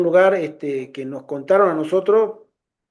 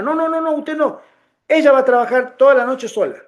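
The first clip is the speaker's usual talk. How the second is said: high-pitched imitated refusal, rapid string of no's; mock refusal; 7 semitones higher, 3 dB louder than usual. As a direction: imitate a man forbidding help, pitched high. Retold man refusing the offered help. (negativa tajante imitada, en tono agudo)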